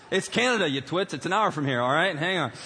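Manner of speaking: mock exasperation. New kid corrects his gawking classmates, exasperated. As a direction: set them straight, mildly fed up.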